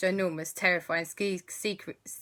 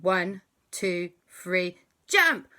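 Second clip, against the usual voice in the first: 1 excited countdown; 6 dB louder, much slower than usual. Acted. Countdown before diving in.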